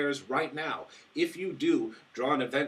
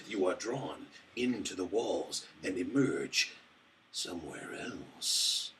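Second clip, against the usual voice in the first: low, slow spooky card reading; dramatic narration; 3 semitones lower, slower than usual. Acted. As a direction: read it like a horror trailer. Reading event card flavor text.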